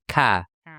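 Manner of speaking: "ka" in a Boston accent, nasal, no R; Boston accent, say "ka" through the nose. Shown as a demonstration. Host contrasts Boston "ka" with British "caw". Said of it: "it's really nasally".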